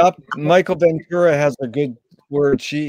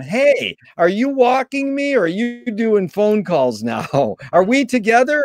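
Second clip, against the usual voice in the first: lightly voiced complaining dog or child, higher-pitched; neglected dog or child; 6 semitones higher than usual. Dog and child to parents on cell phones, mock indignant questioning. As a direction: pitch it up a little, as a kid questioning a distracted parent. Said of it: "the dog and the child are going".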